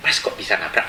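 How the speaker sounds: low, softened question; retold mild, quiet questioning; unexpectedly calm. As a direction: ask it calmly, without anger. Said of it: "Kok bisa kalem ya?".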